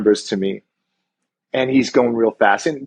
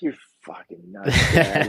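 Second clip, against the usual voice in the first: laughing disbelief; 6 semitones higher, slower than usual. Retold or imitated. Son laughing at dad.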